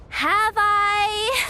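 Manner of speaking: high, forced nervous laugh; nervous laughter. Acted. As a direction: laugh it off too brightly, hiding nerves. Covering up nervousness.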